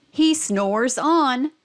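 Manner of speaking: slow, drawn-out model line; slow emphasis. Shown as a demonstration. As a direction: stretch the words out for the child. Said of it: "modeling snores".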